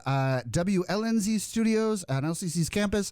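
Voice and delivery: lightly put-on radio host announcing a guest; show host intro. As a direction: open the show like a local host, unhurried. Plays a show host opening the segment.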